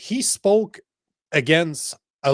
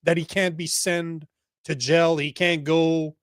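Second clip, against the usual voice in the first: mocking officials. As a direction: mimic the smug officials covering it up. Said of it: "and they're just like".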